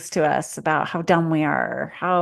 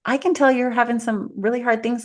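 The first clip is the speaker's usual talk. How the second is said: gentle empathy; 5 semitones higher than usual. Shown as a demonstration. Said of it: "instead it's like".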